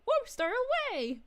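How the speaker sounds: excited battle cry. Acted. Repeats Shamus's line, acted out.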